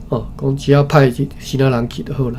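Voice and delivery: ordinary delivery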